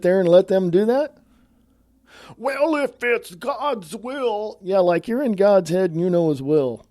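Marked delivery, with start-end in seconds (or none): 2.4-4.6 mock pious voice. Mocking Christians' pious reply.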